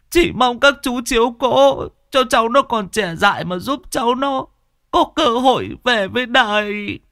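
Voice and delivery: put-on an old woman pleading for her son, pitched far up; pleading old mother. A narrator's reading. Old mother begs police for son. (giọng bà già van xin, rất cao)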